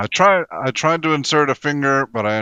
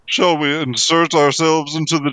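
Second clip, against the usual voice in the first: slightly raised, measured delivery; in-character proposal; 3 semitones higher than usual. Acted. Player proposing a plan to the party, in-character proposal. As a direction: propose it with mock formality. First asking, group begs no repeat.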